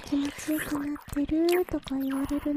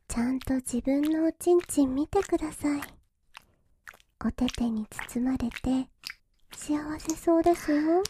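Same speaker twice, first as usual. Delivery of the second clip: whispering. Acted. Whispered teasing.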